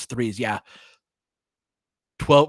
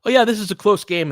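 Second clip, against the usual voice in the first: mock complacent; 10 semitones higher, 7 dB louder than usual. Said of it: "be like".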